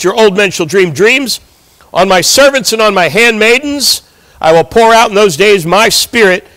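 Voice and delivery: emphatic scripture proclamation; bold declaring. Acted. Peter quoting Joel's prophecy to the crowd, boldly declaring. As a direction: proclaim the prophecy with pulpit conviction. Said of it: "he is now boldly declaring".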